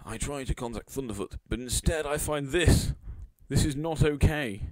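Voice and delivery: high, slowing mock outrage; mock-distressed reading. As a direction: read it out as an overwrought complaint. Reads a complaint tweet mockingly.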